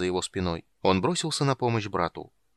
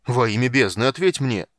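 loud, raised-pitch exasperated yell; shouted demand; 2 semitones higher, 7 dB louder than usual. A narrator's reading. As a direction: shout for an answer. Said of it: "прокричал силач". (кричать, требуя ответа)

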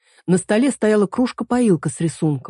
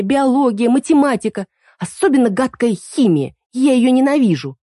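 higher, louder resentful rant; girl venting her hatred of school, higher and louder; spiteful rant; 6 semitones higher, 4 dB louder than usual. Acted. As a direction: spit out every subject she hates. Girl ranting about hated school.

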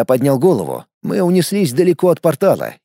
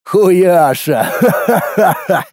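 guffawing; 3 semitones higher, much slower than usual. Acted. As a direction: roar with laughter. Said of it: "Заржал Колян".

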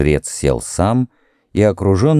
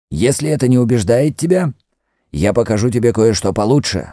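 lightly voiced, higher priest; Mefres the priest; 5 semitones higher than usual. A touch of high-pitched insistence. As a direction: priest promises a doubter better proof, higher insistent voice. Priest sets out to prove himself.

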